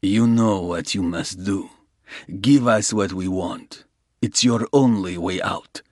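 a lightly voiced Russian pressing his point; menacing Russian. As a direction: push him toward the only way out.

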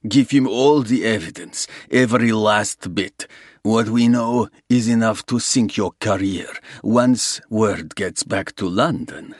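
a lightly voiced Russian gangster, smooth and sure; menacing Russian. Russian gangster offering Soames a deal, smooth menace. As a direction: lay out the terms like a patient crook.

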